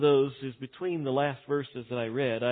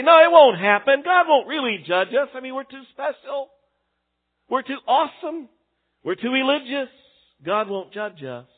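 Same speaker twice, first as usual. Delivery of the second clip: higher, louder mock of smug believers; 8 semitones higher, 7 dB louder than usual. Preacher mocking smug believers, high and loud. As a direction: sneer it like a smug know-it-all.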